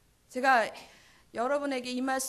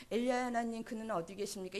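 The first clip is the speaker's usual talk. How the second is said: softer, lifeless mumbled prayer; a limp question with no longing behind it; flat, half-hearted plea; 3 semitones lower, 6 dB quieter, faster than usual. Shown as a demonstration. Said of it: "이랬겠어요?". (힘없이 웅얼거리는 기도)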